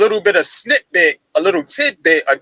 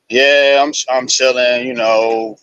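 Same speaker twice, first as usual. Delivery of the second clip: low, flat, uninterested voice; low nonchalant monotone; 5 semitones lower than usual. Retold or imitated. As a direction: answer like you couldn't care less. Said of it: "kinda like in a low, kinda nonchalant, monotone voice".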